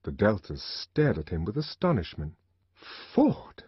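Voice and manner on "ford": whispered oath; under his breath. Acted. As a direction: hiss it to himself. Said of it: "below his breath".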